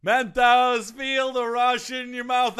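a touch of a hammy ad read; ad announcer. Acted. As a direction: sell it like a cheesy commercial. Mock sponsor tagline.

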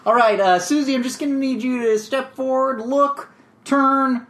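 a hint of a patient director giving blocking notes; mock film director. Director coaching an actress through her scene, mock patient. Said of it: "I imagine the director being like".

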